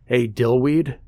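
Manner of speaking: a mild snarled jeer. Acted. Older boy on the bus jeers at Ben, a mild snarl. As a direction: sneer the name at him. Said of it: "an older boy ... snarled".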